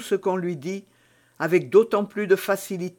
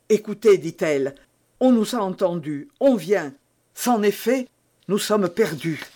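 alarmed; 2 semitones higher, 3 dB louder than usual. Acted. Milady hears knocking, alarmed.

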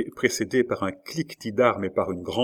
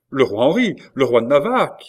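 loud, raised-pitch shout; sentries shouting; 4 semitones higher, 8 dB louder than usual. A narrator's reading. Sentinels answer the queen mother, shouting. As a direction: shout the name up to the window. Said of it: "crièrent les sentinelles".

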